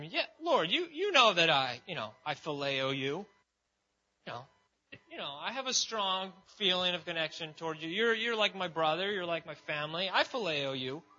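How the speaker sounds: lightly voiced Peter, keen to please; Peter's earnest reply. Preacher voicing Peter answering Jesus, earnest.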